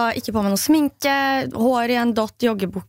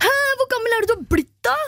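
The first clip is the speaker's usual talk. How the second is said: put-on high, fast boy voice, puzzled; boy asking age; 10 semitones higher, faster than usual. The speaker voicing the boy asking her age, high and fast. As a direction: fire it off like a nosy kid, much higher. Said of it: "boy asks her age".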